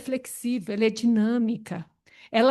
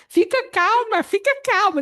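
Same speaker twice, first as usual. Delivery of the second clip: mock soothing; 8 semitones higher, 3 dB louder than usual. Someone calming an angry person.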